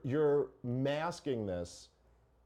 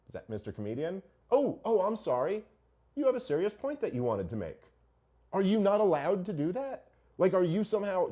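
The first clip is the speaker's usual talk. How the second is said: mock sarcasm; 5 semitones higher, 4 dB louder than usual. Mocking the serious comedian.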